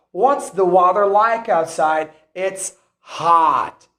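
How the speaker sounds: American "hot" with an unrounded ah; open-lipped American O in "hot"; American accent. Shown as a demonstration. Teacher giving learners an example exchange, American accent. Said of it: "In the American accent".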